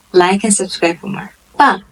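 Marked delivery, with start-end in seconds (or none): 1.6-1.8 爸 starting high and falling; fourth tone. Shown as a demonstration. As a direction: drop sharply through 爸. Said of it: "is the fourth tone".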